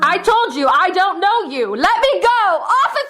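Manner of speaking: high, frantic cries to be let go; panicked yelling. Acted. Mary tries to escape the man she doesn't know, panicked. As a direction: shove him off and shout. Struggling free from George.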